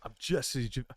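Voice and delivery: lightly attempted Minnesota accent slipping toward Austrian; a hint of Schwarzenegger in a Minnesota impression; Minnesota accent sliding into Arnold. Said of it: "You're Arnold".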